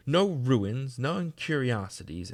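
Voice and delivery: pointed ghostly retort; ghost echoing her. A narrator's reading. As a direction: turn her words back on her, pointedly. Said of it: "answered the ghost".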